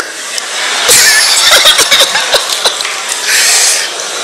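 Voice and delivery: an unvoiced high laugh; breathy high laugh. Real, not acted. Laughing at the major's claim of command. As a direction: laugh hard, high and airy.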